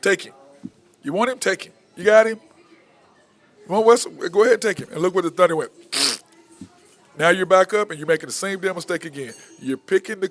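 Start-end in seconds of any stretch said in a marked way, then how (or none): 0.0-4.9 defiant retold quote. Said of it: "Just like K D said".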